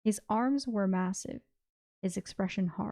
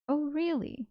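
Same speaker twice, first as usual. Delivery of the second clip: higher-pitched exclamation of doubt; mock-surprised exclamation; 7 semitones higher than usual. A narrator's reading. Swain cutting off Orym's complaint, exclaiming in disbelief. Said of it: "Swain exclaimed".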